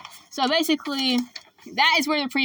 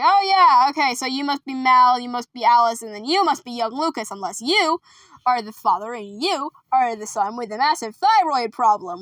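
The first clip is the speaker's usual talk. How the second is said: a hint of a theatrical host; Gomez. Gomez greets the visiting family, lightly hammed-up introduction. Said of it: "and he's like".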